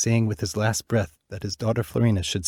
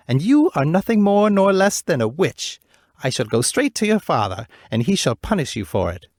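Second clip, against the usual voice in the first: higher, louder furious queen; angry accusation; 5 semitones higher, 5 dB louder than usual. Acted. Wicked queen accusing the princess, loud and furious. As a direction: denounce her as a witch. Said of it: "seized Florina by the arm and cried".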